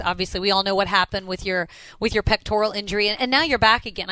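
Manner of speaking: normal talking voice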